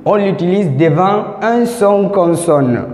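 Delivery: posé et appuyé; slow, careful emphasis on un son consonne; slow stress. Shown as a demonstration. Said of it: "Faites très attention". (lentement, en appuyant)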